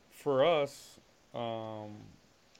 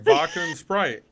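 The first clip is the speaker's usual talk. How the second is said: slow, slightly raised, retold order; insistent repeat; 3 semitones higher, 6 dB louder, slower than usual. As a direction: spell it out slowly for a baffled bartender. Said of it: "they're looking at me crazy".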